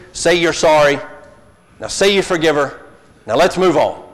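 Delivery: brisk loud parent voice; quick parent. Retold or imitated. Preacher mimicking a hurried parent, brisk and loud. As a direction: hurry it along like an impatient parent. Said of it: "get away from the quick".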